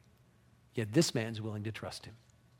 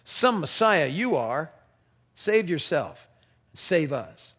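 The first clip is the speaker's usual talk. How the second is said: louder, higher jeering curse; cursing criminal; 5 semitones higher, 6 dB louder, slower than usual. Acted. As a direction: spit the taunt at him. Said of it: "cursed him".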